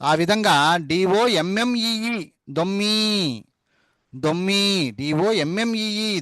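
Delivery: డిఓ ఎంఎంఈఈ spelled out very slowly, letter by letter; slow spelling. Shown as a demonstration. Teacher spelling దొమ్మి in English letters, slowly. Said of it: "ఎమ్ మధ్యలో పెట్టాడు".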